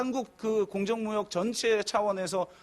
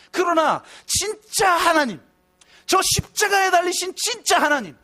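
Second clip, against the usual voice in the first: preaching at full force; 5 semitones higher, 4 dB louder than usual. Acted. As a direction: cry out to God from the pulpit. Preaching climax.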